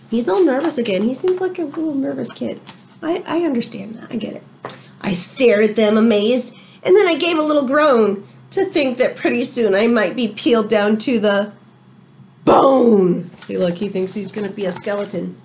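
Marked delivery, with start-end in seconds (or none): 5.0-13.2 lively read-aloud to the class; story reading. A narrator's reading. Teacher reading a storybook to her class, lively read-aloud. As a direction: tell it like a picture book to children.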